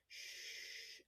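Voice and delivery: whispered shush; soft shush. Shown as a demonstration. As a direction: hush gently like to a baby.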